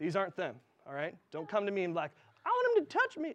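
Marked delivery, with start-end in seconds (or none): 2.5-3.3 very high put-on voice. Giving dating advice, mocking what a listener might say: put-on high voice. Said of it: "that was just a high voice".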